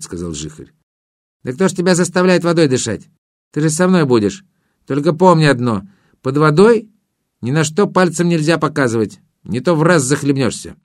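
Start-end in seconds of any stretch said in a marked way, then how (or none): 1.4-10.8 higher, lightly voiced water sprite; a hint of a chatty river spirit. Water spirit explains the rules.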